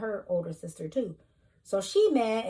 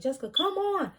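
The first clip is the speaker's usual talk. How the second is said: high, loud call from mom; a mother yelling after her daughter, higher and louder; 9 semitones higher, 4 dB louder than usual. Retold or imitated. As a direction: mimic mom calling her back. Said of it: "my mom is trying to, like, yell for me".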